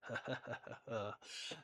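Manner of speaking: demo chuckle. Shown as a demonstration.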